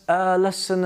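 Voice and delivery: "a" said as "uh" before lesson; careful model of "a" as "uh"; weak neutral vowel on "a"; schwa in A. Shown as a demonstration. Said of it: "with the word a".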